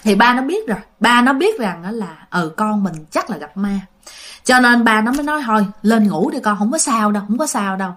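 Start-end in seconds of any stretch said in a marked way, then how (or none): 5.5-7.9 lower, settling voice; calm a scared child back to bed; reassuring father. Retold or imitated. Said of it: "Ba nó cũng trấn an".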